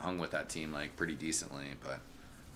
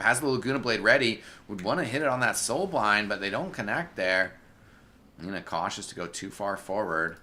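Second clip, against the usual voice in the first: louder, animated esports commentary; live play-by-play; 5 semitones higher, 8 dB louder than usual. Real, not acted. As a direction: call the fight as it builds.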